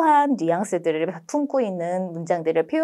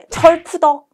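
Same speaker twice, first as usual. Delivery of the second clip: high, loud flop sound-word; mock sound effect; 8 semitones higher, 6 dB louder, slower than usual. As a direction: act out flopping on the bed. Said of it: "입 밖으로 진짜 소리 내면서". (침대에 눕는 소리를 흉내)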